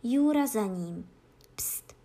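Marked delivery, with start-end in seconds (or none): 1.5-2.0 soft, voiceless shushing; barely audible "pst"; whispered hush. A narrator's reading. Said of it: "zašeptala po chvilce".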